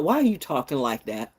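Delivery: talking through a mouthful; chewing while talking; mouth full. Real, not acted. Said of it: "With your mouth full".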